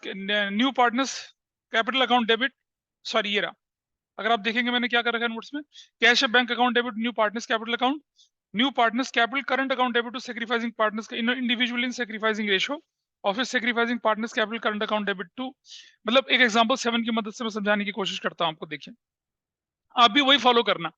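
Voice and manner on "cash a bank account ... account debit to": reads the entry out word by word, very slowly; slow dictation. Shown as a demonstration. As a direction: dictate it so students can write it down. Teacher dictates journal entry slowly. (धीमी गति से notes लिखवाना)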